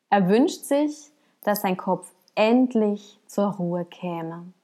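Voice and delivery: measured parable reading with deliberate pauses; story narration. Acted. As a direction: read it like a storyteller, unhurried. Reads a parable aloud.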